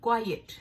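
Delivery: teacher saying क्वाइट for the class; model pronunciation. Shown as a demonstration. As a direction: demo क्वाइट carefully like a teacher. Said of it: "इसकी जो pronunciation है".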